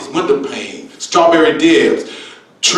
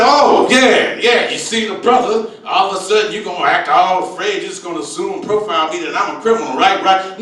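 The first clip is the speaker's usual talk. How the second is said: mock indignant; 2 semitones higher than usual. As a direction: play the wronged man calling her out. Comic voicing himself confronting scared lady.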